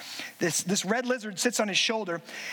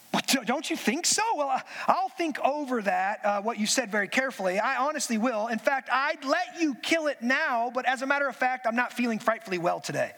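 a hint of a nervous, hedging ghost; flustered ghost making excuses to the angel; lightly voiced flustered ghost; 2 semitones higher than usual. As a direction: stall politely, embarrassed. Ghost voiced in read story.

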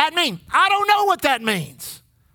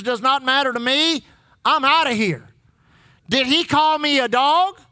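huffy quitting churchgoer. Acted. Voicing offended churchgoer.

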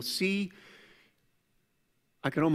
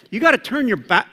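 higher, louder restart; restated firmly; 6 semitones higher, 6 dB louder, faster than usual. Real, not acted. Preacher restarting the point without the cuss word, firm. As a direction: come back in strong. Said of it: "I almost said a Christian cuss word".

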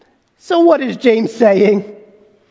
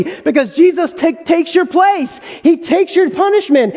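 preaching shout; 5 semitones higher than usual. Real, not acted. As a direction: proclaim it with force, building. Preaching climax on substitution.

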